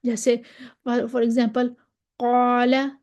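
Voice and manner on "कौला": "कौला" with a full, dark long alif; heavy first vowel in "कौला"; मोटा अलिफ. Shown as a demonstration. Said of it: "इतना मोटा भी नहीं". ("कौला" का अलिफ मोटा करके)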